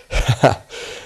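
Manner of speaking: short breathy villain's laugh; mocking laugh. A narrator's reading. Doctor laughing at his new captives, mocking laugh. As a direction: let out a brief, airy laugh. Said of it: "and he laughed again".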